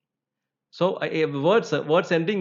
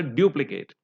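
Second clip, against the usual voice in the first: "duplicate" stressed on DU-; stress on first syllable. Shown as a demonstration. Teacher explaining why, stress third from the end. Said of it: "third one from the end".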